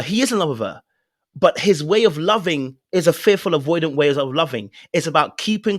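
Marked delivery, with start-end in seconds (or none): 0.0-0.8 is said firmly; stress on is. Shown as a demonstration. Host correcting the skeptic, stress on is. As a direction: land on the word is. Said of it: "Someone might say".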